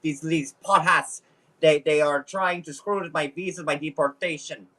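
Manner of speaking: hammed-up Russian accent; comic Russian-accented complaint. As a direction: play an aggrieved Russian immigrant with a thick accent. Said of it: "I have to get all my Russian in".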